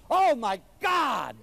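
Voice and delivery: slow, loud cry of amazement; astonished shout. Retold or imitated. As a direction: stagger back in delighted shock. Wife opens the door.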